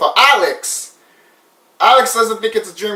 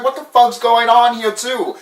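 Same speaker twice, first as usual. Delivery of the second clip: disbelief; 6 semitones higher, 3 dB louder than usual. Retold or imitated. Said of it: "I would've been like".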